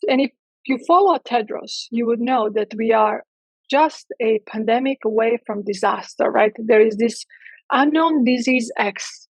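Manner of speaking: dry sarcasm posing as dire news; sarcastic. Real, not acted. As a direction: lay on the sarcasm, stretching the last words. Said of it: "the tone of my voice that I'm being sarcastic".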